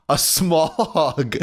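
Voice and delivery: slow, drawn-out announcement; slow dramatic. Acted. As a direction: drag it out like a title card. Dramatic title read, slowed.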